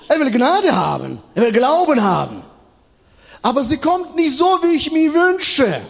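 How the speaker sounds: high-pitched, emphatic preacher's cry; impassioned preaching. Real, not acted. Preacher telling congregation grace comes unexpectedly, impassioned high-pitched preaching.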